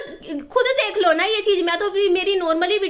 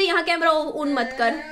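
slow, crying through the words; fighting back tears while recounting; tearful; 3 semitones lower, slower than usual. Real, not acted. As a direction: voice catching in tears.

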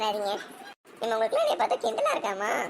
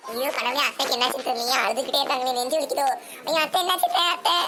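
mock panic; 3 semitones higher than usual. Panicking over crying aunt.

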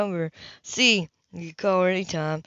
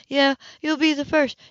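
higher, scornful parody of "you'll be the first"; mocking echo; 6 semitones higher than usual. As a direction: sneer his line "you'll be the first" back at him. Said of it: "she said coldly now".

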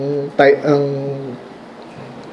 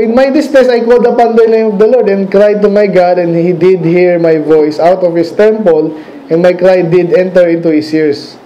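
scripture reading. Acted. Preacher reading David's psalm aloud, raised then slowing. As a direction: lift distress, then read the rest slowly and solemnly. Reads scripture verse in full.

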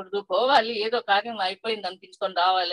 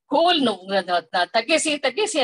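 retold child's yell; 4 dB louder than usual. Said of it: "అరిచి గట్టిగా ఆటోలో".

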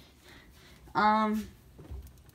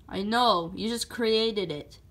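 understated, deadpan sarcasm; sarcastic. Acted. Mario answers Red Yoshi's boast about his new voice, mildly sarcastic. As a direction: humour him with dry sarcasm. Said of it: "I was being sarcastic".

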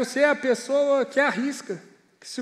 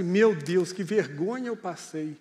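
mildly embarrassed groaning tone, pitched low; mock mortified; 6 semitones lower, slower than usual. Listener reacting to an awkward evangelism attempt, mildly mortified. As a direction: voice a low-pitched, understated cringe of shame.

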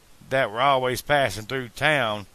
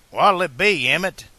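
cheerful call; 7 semitones higher, 7 dB louder than usual. A narrator's reading. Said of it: "the bartender called cheerfully".

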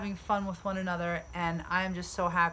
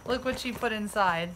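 laughing. Real, not acted. Laughing while unpacking the gift.

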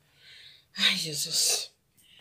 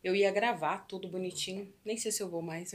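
normal talking voice

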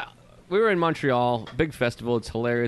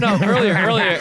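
pushing, insistent and louder; more urgent, louder; 3 semitones higher, 3 dB louder than usual. Retold or imitated. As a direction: urge him to hurry, louder. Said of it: "So I was like".

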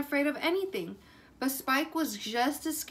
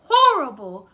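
much higher and louder, fear bursting out; scared blurt; 7 semitones higher, 12 dB louder than usual. Acted. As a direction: blurt it out, unable to hold it in. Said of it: "he blurted".

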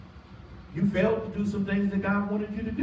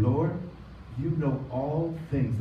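calm; 3 semitones lower, 4 dB quieter, slower than usual. Acted. Calm contrasting answer.

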